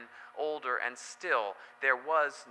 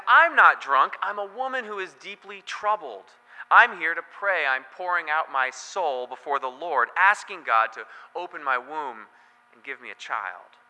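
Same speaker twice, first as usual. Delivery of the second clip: higher, louder protest as the wronged woman; Hannah protesting; 3 semitones higher, 6 dB louder than usual. Retold or imitated. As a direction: insist you're not drunk, then soften to a plea. Hannah answers the accusing priest.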